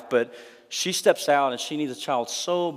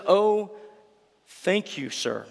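higher, bright relieved exclamation, fading at sir; exclaimed; 6 semitones higher, slower than usual. Retold or imitated. Hannah thanking the priest for his blessing, joyful exclaim. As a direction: burst out in grateful relief. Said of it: "she exclaimed".

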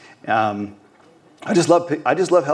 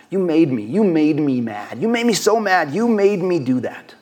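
powerless voice, blaming; 4 semitones higher than usual. Acted. Preacher mimicking a powerless person blaming others, whiny. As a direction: wail the accusation like a put-upon victim. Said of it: "Or I like this one".

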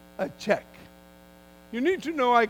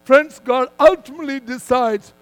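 firm, measured sermon delivery with punched key words; emphatic preaching; 3 semitones higher, 6 dB louder than usual. Real, not acted. Preacher telling a congregation God moves people so they seek him, emphatic preaching.

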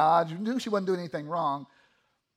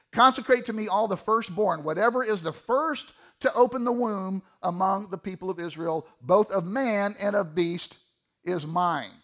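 scripture reading. Acted. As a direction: read the verse out with deliberate weight.

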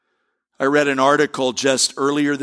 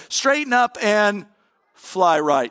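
teacher's scolding; 6 semitones higher, slower than usual. Retold or imitated. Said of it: "what do you think she'd say".

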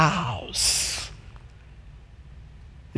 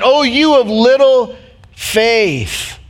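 lightly voiced Jesus; 7 semitones higher, much slower than usual. Voicing Jesus rebuking.

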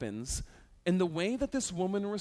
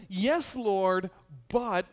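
sly retort; 3 semitones higher, 6 dB louder, much slower than usual. Retold or imitated. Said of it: "She kinda does this".

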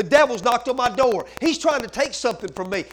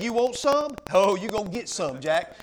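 taunting defiance; 4 semitones lower than usual. Retold or imitated. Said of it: "look at the devil in the face and say".

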